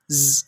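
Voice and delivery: a drawn-out buzzing ز; wrong z sound. Shown as a demonstration. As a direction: hold ز as a whistling z. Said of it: "یہ آواز نہیں ہے". (سیٹی والی ز کی آواز)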